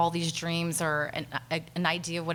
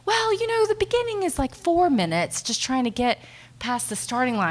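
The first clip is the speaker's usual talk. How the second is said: imitating dad; 5 semitones higher, 3 dB louder than usual. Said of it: "my dad kept saying".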